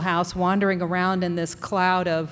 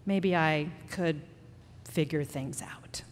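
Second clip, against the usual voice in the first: soft ending; 3 semitones lower, 7 dB quieter, slower than usual. Real, not acted. Quiet closing line.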